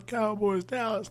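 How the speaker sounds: squealing fan. Retold or imitated. Excited fan arriving at stadium.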